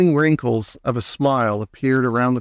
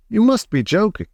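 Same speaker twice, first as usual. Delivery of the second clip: incredulous; 8 semitones higher than usual. A narrator's reading. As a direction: say it stunned. Grandpa Joe disbelieving.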